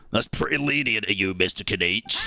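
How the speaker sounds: lightly voiced reporter character; Charlotte. Reporter remarking to a colleague, lightly put-on character voice. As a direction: have another go at the put-on reporter voice. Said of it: "And Charlotte's more like".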